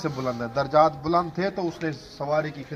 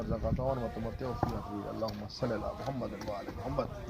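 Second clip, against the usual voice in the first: prayer. Acted. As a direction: pray earnestly, then close in hushed Arabic. Prays for bereaved family. (دھیمی پرسوز دعا)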